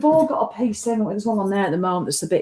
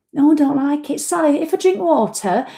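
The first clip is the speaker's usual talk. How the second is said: higher whining client voice; mock whiny client; 6 semitones higher than usual. Imitating client Janice's excuse to Sally, higher whine.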